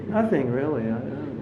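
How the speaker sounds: soft, fading mumble; mock downhearted devotee; downcast reply. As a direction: trail off as if at a loss. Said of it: "some devotees feel very bad about themselves".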